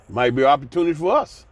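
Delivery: brisk, polite corporate tone; a light imitation of a polite executive; mock professional. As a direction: play it smooth and businesslike. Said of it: "You know how they talk. Be real professional".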